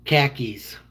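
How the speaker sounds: Boston-accented KHAKIS for car keys. Shown as a demonstration. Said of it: "in a Boston accent, it's".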